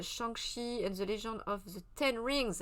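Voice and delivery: slow, careful English accent on "Shang-Chi and the Legend of the Ten Rings". Shown as a demonstration. French host reading an English film title, slow English accent. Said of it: "avec mon bel accent".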